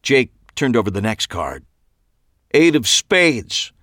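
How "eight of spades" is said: forced strength. A narrator's reading. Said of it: "trying to put some power back into his voice".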